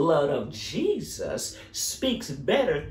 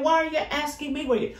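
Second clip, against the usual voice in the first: Cain's scorn; 9 semitones higher, faster than usual. Acted. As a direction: shout it back with contempt. Preacher voicing Cain's scorn.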